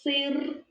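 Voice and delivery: "Сир" with the first С drawn out, softly; teacher's soft sound-by-sound "Сир". Shown as a demonstration. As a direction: hold the opening s of "Сир". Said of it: "Вимовляємо слово та визначаємо перший звук".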